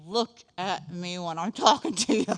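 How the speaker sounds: lightly voiced scolding parent; hint of a parent demanding a child's attention; stern parent. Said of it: "parents grabbed your little face and said".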